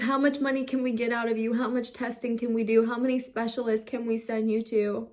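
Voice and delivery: fast, bitter mock of the doctors' greed; a furious list of grievances; angry rant. Real, not acted. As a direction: spit out their questions in real anger. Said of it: "I'm trying not to get mad".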